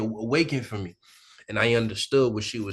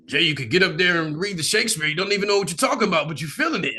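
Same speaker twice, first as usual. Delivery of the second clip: theater teacher; 5 semitones higher, faster than usual. Retold or imitated. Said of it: "my theater school teacher with".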